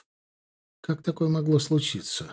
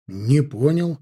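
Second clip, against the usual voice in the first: mock surprise; 2 semitones higher, 4 dB louder, slower than usual. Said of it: "наигранно удивился я".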